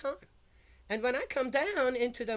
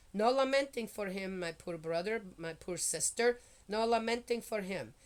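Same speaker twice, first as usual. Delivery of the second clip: scripture reading. Acted. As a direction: read the prophecy aloud with gravity. Reads Jeremiah aloud.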